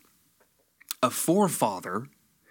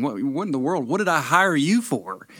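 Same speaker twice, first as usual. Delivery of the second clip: exasperated king; 4 semitones higher than usual. Acted. Voicing exasperated king to prophet.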